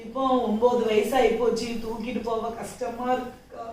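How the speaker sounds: low voice sinking away at the end; tearful. Acted. Mother confiding in a neighbour about carrying her child, tearful. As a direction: let the hardship weigh the words down. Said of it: "சரி, அழாதீங்க".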